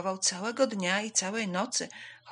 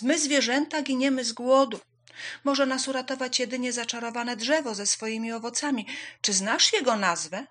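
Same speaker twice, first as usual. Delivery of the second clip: higher, louder hare voice; raised, insistent animal voice; pleading hare; 5 semitones higher, 6 dB louder than usual. Acted. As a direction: plead urgently for the starving animals. Hare pleads with wise woman.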